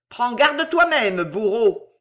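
slow, high, cold warning; calm menace. A narrator's reading. Fausta answers the executioner, cold without anger. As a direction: warn him without anger, icy. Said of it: "sans colère".

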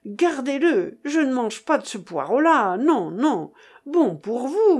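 wounded, emphatic rejection; indignant refusal. Acted. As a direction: refuse it hotly, offended.

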